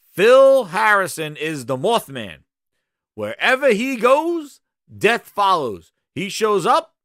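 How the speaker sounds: loud, slow doom announcement; ominous proclamation. Pretend. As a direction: pronounce it like a dark prophecy.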